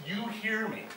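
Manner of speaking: high-pitched, beckoning call; calling summons. Acted. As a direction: lift it high as if summoning someone. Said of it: "There's something calling Saxon".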